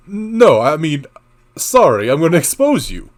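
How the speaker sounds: mildly hammed-up courtroom challenge; dramatic. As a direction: announce it like a dramatic accuser. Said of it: "You sound pretty dramatic right now".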